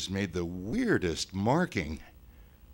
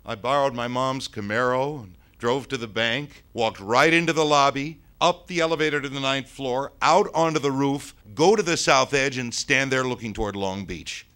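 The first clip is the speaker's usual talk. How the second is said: high, loud account building to a peak; excited retelling; 9 semitones higher, 11 dB louder than usual. Acted. Ghost proudly tells the boy how he jumped, excited retelling. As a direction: relive it at full volume, climbing in pitch.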